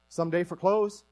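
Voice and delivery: light Newfoundland accent; Newfie accent. Shown as a demonstration. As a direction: say it as a casual Newfie reply. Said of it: "a little bit of Newfie language".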